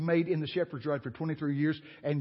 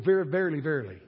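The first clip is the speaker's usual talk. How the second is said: mock stutter; 3 dB louder than usual. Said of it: "Why did he go".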